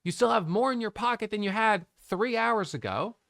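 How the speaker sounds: calm yourself down mid-stream; reassuring self-talk. Real, not acted. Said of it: "I'm reminding myself in real time".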